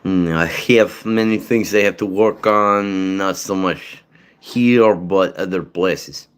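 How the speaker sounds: slow, light Ukrainian accent. Shown as a demonstration. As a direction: drawl it out like a Ukrainian newcomer. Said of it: "or Ukrainian accent".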